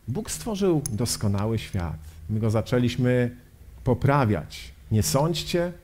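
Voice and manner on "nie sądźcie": "Nie sądźcie" lifted as a question; quizzical quoting. Acted. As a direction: quote "Nie sądźcie" with raised, doubting pitch. Quoted command held up as question. („Nie sądźcie” z pytającą intonacją)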